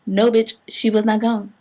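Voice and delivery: emphatic. Real, not acted. Emphatic correction.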